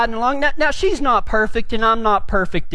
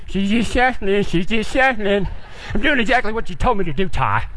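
mad muttering; 4 semitones lower than usual. Retold or imitated. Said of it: "I'm getting mad".

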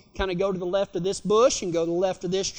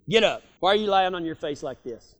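lower, firm fatherly scolding; daddy's stern voice; 6 semitones lower than usual. Retold or imitated. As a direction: scold like a daddy rousting his kid. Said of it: "heard your daddy tell you that".

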